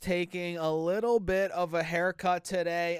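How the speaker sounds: stuffy, nasal allergy voice. Real, not acted. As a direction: talk through a blocked nose. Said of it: "my nasally voice right now".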